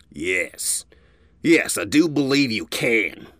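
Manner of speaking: lightly voiced probing old stallion; curious elder. A narrator's reading. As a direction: size her up, curious. Elder agrees slowly.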